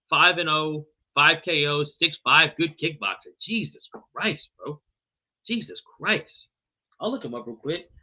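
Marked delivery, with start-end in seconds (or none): 3.4-6.5 drawn-out disbelief. Real, not acted. Struggling with a fighter name.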